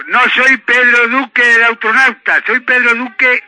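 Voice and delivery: words spaced out slowly; slow it down as asked. Real, not acted. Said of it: "hable despacio".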